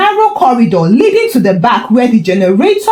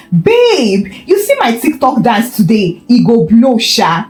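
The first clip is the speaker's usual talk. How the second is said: fake American accent. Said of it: "her fake American accent".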